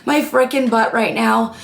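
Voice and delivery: hoarse allergy voice; raspy, cracking from allergies; smoker's rasp. Real, not acted. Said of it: "I know I sound like I'm a chain smoker".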